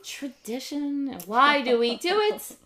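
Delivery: put-on sing-song Yiddish accent. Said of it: "Should have said it with a Yiddish accent".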